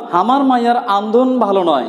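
the Rangpur regional way, হামার for আমার, আন্দন for রান্না; Rangpur dialect. Shown as a demonstration. Teacher gives students a Rangpur dialect sentence, Rangpur accent. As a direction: say it in plain Rangpur village dialect. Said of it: "Rangpur অঞ্চলের আঞ্চলিক ভাষা যদি একটি কথা বলি".

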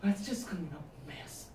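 soft, calm and soothing; calm her down gently; eerily gentle reassurance; calmest voice. Retold or imitated. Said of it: "in the calmest voice I could muster".

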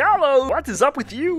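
slurred frog puppet greeting; drunk Kermit voice. Acted. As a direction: play a tipsy Kermit. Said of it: "Why do you sound like a drunk Kermit?".

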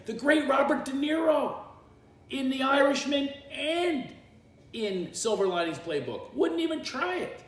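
high, loud indignant rant; mock outrage. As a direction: proclaim it in exasperated disbelief. Mock outrage at actors' accents.

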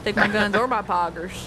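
quick Southern gun-lover bit; defiant put-on Southern accent. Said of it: "the Southern accent Pogger".

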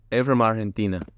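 put-on Argentinian accent, Spanish h in Argentina. Host posing as someone from Argentina, put-on Argentinian accent. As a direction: play a local with an Argentinian accent. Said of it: "I swear y'all do that".

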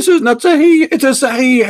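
mock crybaby. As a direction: mimic him like a sulking child. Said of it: "you cry and you say".

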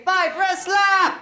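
high, loud, slow cheer of the name; excited call-out. Shown as a demonstration. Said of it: "Everyone say".

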